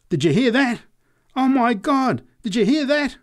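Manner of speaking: very high, loud, incredulous cries; drunken exclaiming. A narrator's reading. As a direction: call out to everyone around. Convulsed drunk calls to the crowd.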